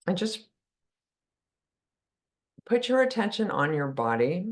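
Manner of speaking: unhurried guidance with long pauses between phrases; calm meditation guide, phrase by phrase; guided meditation. Real, not acted. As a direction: ease listeners into stillness, leaving long silences. Leads a meditation.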